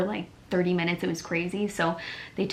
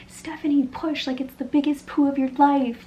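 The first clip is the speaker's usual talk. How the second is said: higher, louder mock nurse yell; a retold scream, higher and louder; imitating a screaming nurse; 8 semitones higher, 4 dB louder than usual. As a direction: shout her on like the nurse did. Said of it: "she was screaming that".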